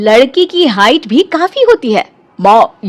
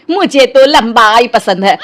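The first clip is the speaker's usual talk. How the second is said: mocking imitation. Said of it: "कैसे बोल रही थी".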